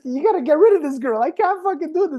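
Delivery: imitating a comedian giving up, very high-pitched; mock desperate plea, voice pushed way up; exasperated comedian. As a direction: play the comedian at his wits' end. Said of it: "He goes, she could, the, the comedian couldn't finish the show".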